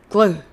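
グルー with the vowel stretched and no second vowel; glu- drawn out. Shown as a demonstration. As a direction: say グルー as one long syllable. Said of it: "グルと言わずに".

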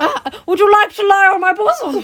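high, laughing mock-seductive offer. Laughing as she teases her friend with a mock offer. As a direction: play it up through laughter.

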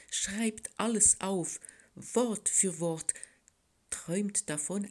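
whimsical little story-poem, read aloud; lively, measured recital with pauses; poetry reading. A narrator's reading. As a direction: tell the verse like a small tale. Author reads her third poem.

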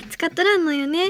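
relaxed Hiroshima dialect demo. Shown as a demonstration. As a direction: let the Hiroshima dialect end lift gently. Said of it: "っていう感じなんですけどね".

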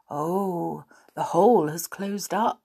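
soft snowy whisper; whispering snowman. Acted. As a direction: hush it like a snowman. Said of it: "in a soft, snowy sort of voice".

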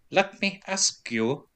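slow, soft mid-Atlantic whisper; Hank's drawn-out whisper. Retold or imitated. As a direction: draw out every word in a hushed, odd whisper. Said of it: "drawing out every word / doing it in a weird whisper".

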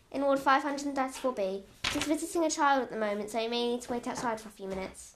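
posh voice. Acted. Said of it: "said the nurse in a posh voice".

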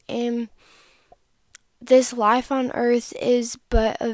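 talking around a cough drop; sucking a hard candy. Real, not acted. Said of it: "I have a cough drop in my mouth".

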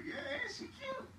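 very high, soft, drawn-out squeak; sheepish retold aside. Drunk man owning up to the woman, high squeaky voice. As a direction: squeak it slowly as a mock backpedal. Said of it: "I was just like".

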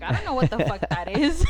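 loud, laughing out the words; laughing disbelief. Retold or imitated. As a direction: blurt it out through a laugh. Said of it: "I'm like".

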